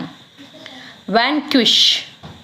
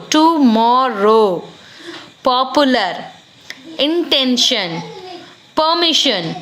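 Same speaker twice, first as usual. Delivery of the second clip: slow syllable by syllable. Shown as a demonstration. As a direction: break "tomorrow" into its syllables, slowly.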